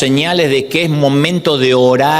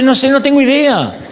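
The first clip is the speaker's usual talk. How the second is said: high, laughing shrug of a line; laughing admission; 9 semitones higher than usual. Pretend. Preacher voicing an honest prayer to God, laughing high. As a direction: laugh through the confession.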